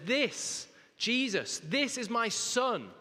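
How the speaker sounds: high, loud declaration of God; proclaiming. Acted. Voicing God's declaration.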